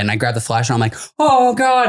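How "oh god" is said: high drawn-out groan of dread; mock-fearful high wail; retold dread. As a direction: play a kid dreading what's coming. Child dreading what comes next.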